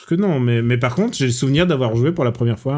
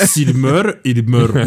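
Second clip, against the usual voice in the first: slow mock Russian accent; hammed-up Russian-accented French; Russian accent on subtitles; 3 semitones lower, much slower than usual. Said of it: "en mettant un accent sur le sous-titre".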